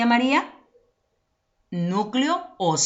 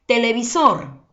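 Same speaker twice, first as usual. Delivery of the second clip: "Televisor" with more force on final SOR; stress on last syllable; 3 semitones higher, 4 dB louder than usual. Shown as a demonstration. Teacher finding the tonic syllable for pupils, stressing SOR in "Televisor". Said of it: "mayor fuerza de voz".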